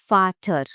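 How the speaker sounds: VATER begun with an F, "fah-ter". Shown as a demonstration. Teacher giving a German example word, V as F. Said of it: "German V sounds like F".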